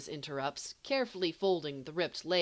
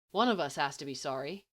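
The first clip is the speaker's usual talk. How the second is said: mildly perplexed; faster than usual. Acted. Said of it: "mildly perplexed".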